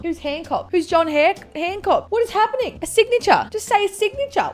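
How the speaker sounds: high-pitched mock exasperation; exasperated bafflement. Baffled quiz player told the answer, high exasperation. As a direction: protest in a squeaky, baffled voice.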